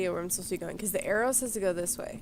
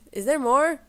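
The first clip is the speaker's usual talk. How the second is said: surprised dismay; 6 semitones higher, 9 dB louder than usual. Real, not acted. Dismayed at the long intro.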